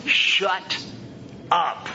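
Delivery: high, forceful demand, broken up on the repeat; stronger command. Shown as a demonstration. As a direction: order silence firmly, then word by word. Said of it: "stronger ways of saying that".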